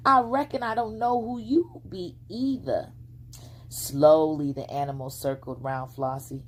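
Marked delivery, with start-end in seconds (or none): 0.1-2.9 put-on high, plain-spoken country girl; a small girl answering the stranger; little girl voice. A narrator's reading. Flossie answering the fox, high and frank. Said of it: "she answered".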